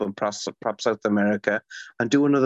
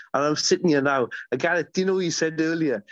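smiling voice; faster than usual. Real, not acted. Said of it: "you can hear the smile in".

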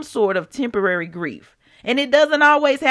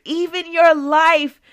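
slow emphatic; 8 semitones higher, 4 dB louder, slower than usual. Real, not acted. Preacher slowing for emphasis.

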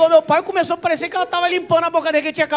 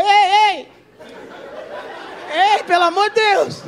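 high, urgent shout for help; imitated calling out; 7 semitones higher, slower than usual. Patient calling staff when bleeding starts, urgent shouting. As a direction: call out high and alarmed. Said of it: "o senhor tava gritando".

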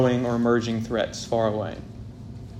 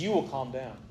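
stern quiet command. Retold or imitated. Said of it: "He says".

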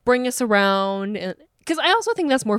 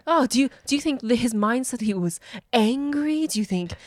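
pompous art lover; 4 semitones higher than usual. Retold or imitated. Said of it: "a little bit of a pompousness".

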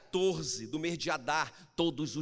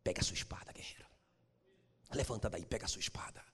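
soft, unvoiced whisper to the warrior; whispered command; 7 semitones lower, 9 dB quieter, faster than usual. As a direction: whisper God's call to rise. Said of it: "a resposta do Senhor da guerra". (sussurro de Deus ao guerreiro)

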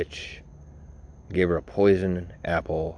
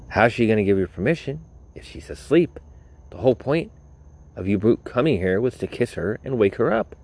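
angry Grumpy; 4 semitones higher than usual. Pretend. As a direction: chew out the dumb prince. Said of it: "Grumpy would turn to him and be like".

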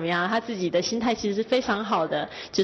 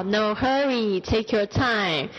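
slow model phrase; much slower than usual. Shown as a demonstration. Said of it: "很好".

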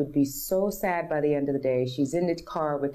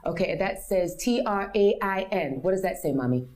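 put-on higher, eager child spelling a word; lightly voiced small girl quizzing mom; little daughter's voice; 5 semitones higher than usual. Daughter quoted reading signs.

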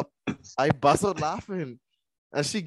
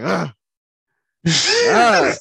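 loud wordless "ah" as a mock cry for attention; imitating struggling noise; 4 semitones higher, 9 dB louder than usual. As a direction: re-enact calling out without words. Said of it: "I started making noise".

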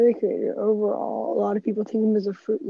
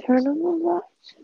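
mock command voice; 8 semitones higher, slower than usual. Mocking voice assistant command.

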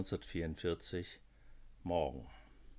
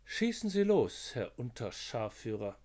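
higher-voiced officer; 3 semitones higher, 5 dB louder than usual. Konzelmann answers.

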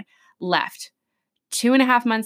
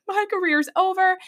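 mock despair; 11 semitones higher than usual. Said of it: "I cried. I was like".

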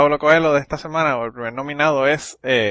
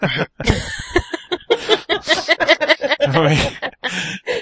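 high, long burst of laughter; laughing. Real, not acted. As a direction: burst out laughing and keep going. Laughing at the retold outburst. (risa aguda y prolongada)

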